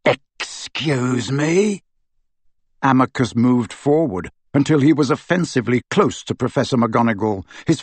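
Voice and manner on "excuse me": very slow, drawn-out challenge; menacing affront. Acted. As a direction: stretch it out threateningly. Amycus affronted.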